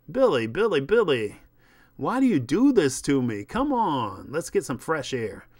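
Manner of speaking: loud, exasperated agent; hammed-up exasperation; exasperated pleading. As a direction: plead loudly with a client who lets you down. Exasperated agent pleads with spaced-out star.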